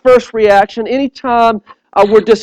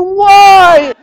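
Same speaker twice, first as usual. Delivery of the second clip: high loud frantic why; panicked shout; 9 semitones higher, 5 dB louder than usual. Retold or imitated. Dad shouting at the flooded bathroom, high frantic yell. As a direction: cry out in disbelief.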